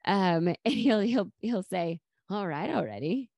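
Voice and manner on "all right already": a hint of imitation, rising at the end; Phoebe. Husband answering a loving remark, lightly imitating Phoebe. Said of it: "imitating Phoebe".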